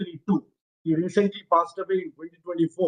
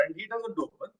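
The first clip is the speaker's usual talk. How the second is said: barely audible; 10 dB quieter than usual. Real, not acted. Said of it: "your voice is very low".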